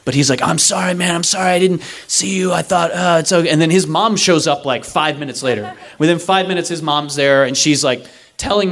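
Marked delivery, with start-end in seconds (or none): 0.4-3.5 mildly flustered apology; apologetic. Retold or imitated. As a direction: imitate a driver apologizing over and over. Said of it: "He's, like, apologizing to me".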